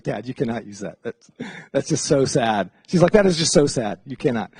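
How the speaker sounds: a lightly voiced embarrassed daughter; exasperated daughter. Daughter scolding dad.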